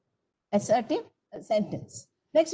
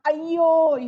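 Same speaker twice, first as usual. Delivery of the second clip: demo exclamation; 4 semitones higher, 6 dB louder than usual. Shown as a demonstration. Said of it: "sudden expletives that come out of our mouth".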